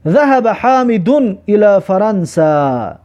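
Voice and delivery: slow, deliberate classroom reading; slow model reading. Shown as a demonstration. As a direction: read it slowly for students to follow. Teacher reads Arabic example sentence.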